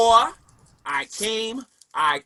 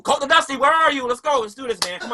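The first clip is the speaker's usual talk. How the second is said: high taunting call; 9 semitones higher than usual. Real, not acted. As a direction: call him out. Calling out challenge to Dusty.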